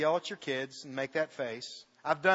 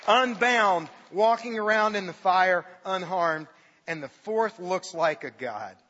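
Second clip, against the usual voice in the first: proclaiming; 6 dB louder, slower than usual. Acted. Preacher proclaims climax.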